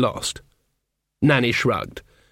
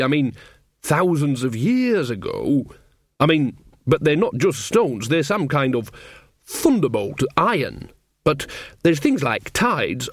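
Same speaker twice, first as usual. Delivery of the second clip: Nanny Ogg, groping to explain. Acted. Mother explaining thin places to her son, hesitant.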